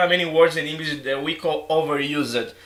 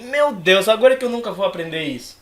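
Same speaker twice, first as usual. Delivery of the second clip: mock dismay, a bit higher and hurried; aluno desanimado; 3 semitones higher, 3 dB louder than usual. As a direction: imitate a student's exasperated despair. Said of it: "ele fica assim". (desânimo imitado de aluno)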